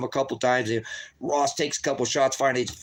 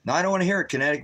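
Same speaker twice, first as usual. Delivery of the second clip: mock dismissive official; 5 semitones higher, much faster than usual. Voicing dismissive probation system.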